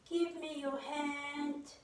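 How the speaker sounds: slow, kindly request in a storyteller's voice; gentle coaxing. Acted. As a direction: coax the girl gently, drawing it out. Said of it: "talking nice to her".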